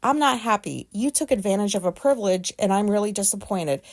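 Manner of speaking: measured parental lecture, leaning on underlined words; stern letter reading. Acted. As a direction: read a mother's scolding letter aloud with firm emphasis. Reads out mother's scolding letter.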